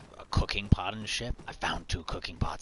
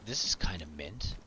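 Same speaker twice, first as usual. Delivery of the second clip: whisper. Real, not acted. Whispered aside while looting.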